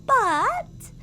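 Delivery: a possessive captor's sweet, menacing voice; obsessive lover. Acted. Captor sweet-talks the darling they kidnapped, creepy and possessive. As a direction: croon to your darling while threatening the captive.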